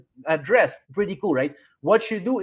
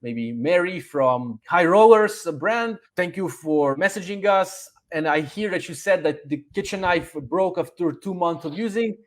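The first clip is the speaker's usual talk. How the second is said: friendly rep reply. Shown as a demonstration. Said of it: "you say, like".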